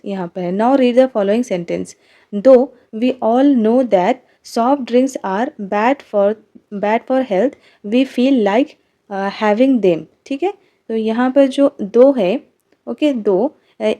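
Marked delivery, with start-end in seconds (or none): 0.6-10.0 reading each word slowly for the class; dictating the sentence slowly and clearly; slow textbook reading. Shown as a demonstration. Teacher reads exercise sentence aloud. (धीरे-धीरे पाठ पढ़कर सुनाना)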